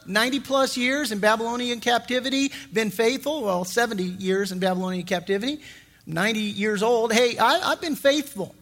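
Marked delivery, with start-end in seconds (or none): 0.1-3.4 smug excuse. Pretend. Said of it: "he could say". 7.1-8.6 smug excuse. Pretend. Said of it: "he could say".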